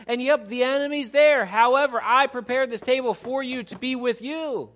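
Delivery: God reassures the believer, rising to a loud ringing declaration; God's voice rising. Acted. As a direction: swell into God's triumphant promise.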